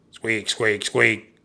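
high, loud run of squeaks; mouse squeaks. A narrator's reading. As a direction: squeak away like mice. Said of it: "they said together".

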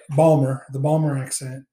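"Balmer" said with the t dropped, local style; Baltimore accent. Shown as a demonstration. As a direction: say "Balmer" the Baltimore way, clipped to two syllables. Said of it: "the way they say it in the Baltimore accent is Balmer".

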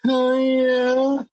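high, drawn-out "yeah" call; mock rallying call. Co-host playfully rallying the other for a cheer, drawn-out call. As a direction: call out for a cheer, holding the last word.

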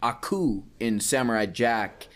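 ordinary delivery

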